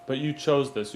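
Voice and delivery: \"you chose this\" said as a proud affirmation, falling at the end; positive. Shown as a demonstration. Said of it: "Be proud of yourself".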